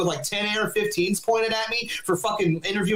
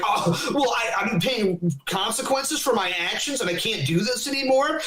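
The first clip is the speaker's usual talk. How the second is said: mocking whine; 4 semitones higher than usual. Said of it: "they're like".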